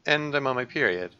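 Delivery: lightly voiced heart-to-heart between two friends; acted game dialogue. Worried friend coaxes out what's wrong, lightly acted. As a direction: read both girls' lines, gently in character.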